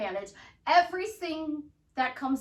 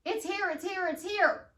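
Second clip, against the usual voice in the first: calm affirmation; 6 semitones higher than usual. Shown as a demonstration. Coach repeating the affirmation for clients, calmly. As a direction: say it simply, settled and sure. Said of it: "That's all you see".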